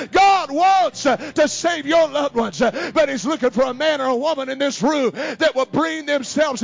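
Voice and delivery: loud, high, impassioned preaching; fiery preaching. Real, not acted. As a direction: build the church up, shouting. Preaching at full force.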